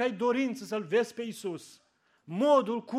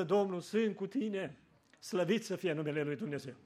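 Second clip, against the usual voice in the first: tender reassurance; 4 dB quieter than usual. Retold or imitated. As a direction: whisper comfort like God answering. God's answer to prayer. (glas blând, liniștitor)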